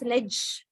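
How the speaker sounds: "ledge" ending in a clear j sound; model pronunciation. Shown as a demonstration. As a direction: show "ledge" with its final j sound. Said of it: "is pronounced as".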